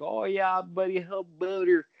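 high-pitched, teasing locker-room voice; ribbing a buddy in hockey slang; joking hockey chirp. Retold or imitated. Joking around with the guys, playful chirp. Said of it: "You know how I always joke around?".

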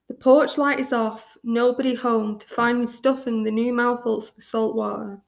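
measured recital of own poem; poem reading. Acted. Reads own poem aloud.

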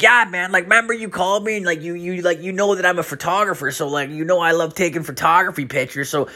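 high mock voice of the buddy; college buddy voice. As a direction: play the clueless old friend high. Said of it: "He's like".

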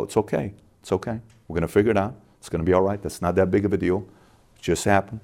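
soft, unhurried reassurance; calm reassurance. Acted. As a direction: say it quietly, as if settling someone down. Calm self-talk when things slow.

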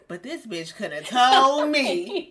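half-laughing, mock outraged; laughing disbelief. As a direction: laugh through the complaint. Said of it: "'cause I'm like".

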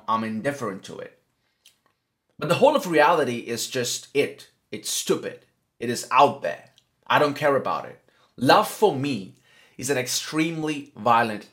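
emphatic read-aloud of a monologue; quote reading. Acted. Host reading a philosopher's words in own accent, emphatic reading. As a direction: read it out in short, punched phrases.

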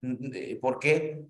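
lightly mocking surprise; mock disbelief. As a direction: play the scoff back at the accuser. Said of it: "Eh, soy enfermera".

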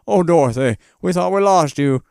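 put-on voice of a relieved uncle. Uncle Henry finds Dorothy by the river, mock relieved cry. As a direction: rise high in hammed-up relief.

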